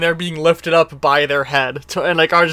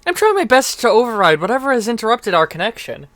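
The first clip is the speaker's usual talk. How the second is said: higher, even machine-like announcement; Maroon's voice; 5 semitones higher, faster than usual. Acted. Armor Maroon reports the broken link, higher and measured. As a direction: speak as the trapped armor's mind. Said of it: "You hear that, like, from Ma-, Maroon".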